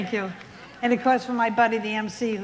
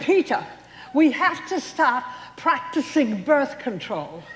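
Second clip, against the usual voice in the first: insisting loudly; 5 semitones higher, 3 dB louder than usual. Retold or imitated. Telling husband firmly.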